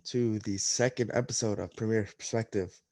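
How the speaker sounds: congested nasal voice after nose surgery. Real, not acted. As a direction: speak through a blocked, nasal nose. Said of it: "super nasally voice today".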